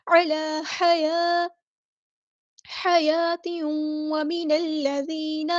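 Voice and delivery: علی حیات drawn out with the long vowels held; very slow Quranic chanting; tajweed recitation. Shown as a demonstration. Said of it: "مد اصلی کریں گے".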